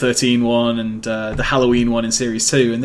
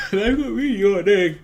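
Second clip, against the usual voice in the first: laughing; 7 semitones higher than usual. Real, not acted. Giggling at yawning.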